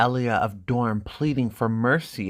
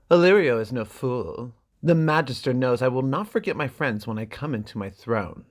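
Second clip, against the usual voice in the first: a touch louder, haughty prince; lightly voiced arrogant brother; proud Viserys; 2 semitones higher, 4 dB louder than usual. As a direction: boast like a king in exile. Viserys boasting of his throne.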